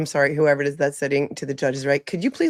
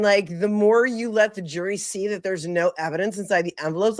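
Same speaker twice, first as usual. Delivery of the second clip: mocking impression; 3 semitones higher than usual. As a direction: parody the prosecutor, pleading and laughing. Streamer mocks prosecutor's objection.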